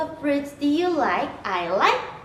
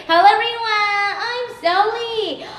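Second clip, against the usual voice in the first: excited greeting; 8 semitones higher, 4 dB louder than usual. Acted. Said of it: "greets kids in teacher voice".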